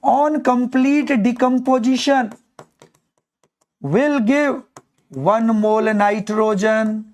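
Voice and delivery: very slow, drawn-out reading, word by word; slow dictation. Shown as a demonstration. Teacher shows how to read the equation, very slow dictation. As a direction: spell it out slowly for the class to repeat. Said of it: "इसको ऐसे पढ़ेंगे".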